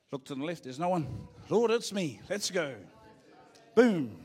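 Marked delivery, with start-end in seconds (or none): 1.5-2.8 raised, louder eager call to God; eager volunteering. Pretend. 3.7-4.2 a sudden much louder boom. Pretend. Punchline sound word.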